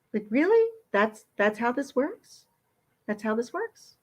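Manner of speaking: rising disbelief, up high then trailing down; incredulous. Real, not acted. Reacting to being sent home, incredulous rising questions. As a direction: ask it in mock disbelief.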